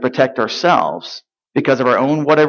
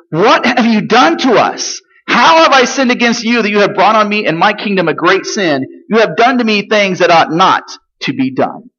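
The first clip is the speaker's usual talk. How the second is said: lightly voiced outraged king, higher; a hint of Abimelech's rebuke; indignant king; 5 semitones higher than usual. Abimelech demanding answers from Abraham, mildly indignant.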